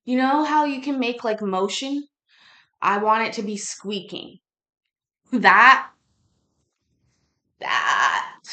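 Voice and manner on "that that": loud, punchy call of that; excited shout. Acted. Pitching his merch idea to the host, loud excited shout. Pointing out the squeaking trailer.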